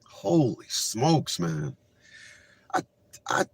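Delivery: slow, hushed, moved; softly stunned, choked-up; awed hush. Real, not acted. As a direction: let it fall away in awe. Moved by the clip.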